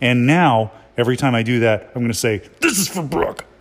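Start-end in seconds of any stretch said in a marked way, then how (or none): 2.6-3.4 forceful, combative, aggressive, pitched up. Showing how the line will be said when punching someone: aggressive. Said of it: "I'm bringing too much aggression".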